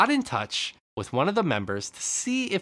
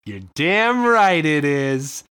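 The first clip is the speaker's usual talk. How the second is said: emphatic; 6 dB louder, slower than usual. Acted. Shopkeeper agrees emphatically.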